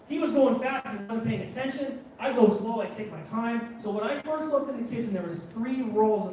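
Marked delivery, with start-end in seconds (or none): none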